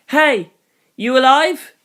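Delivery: high shout across the smoke; calling out. Acted. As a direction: yell to find a survivor. Calling out at impact site.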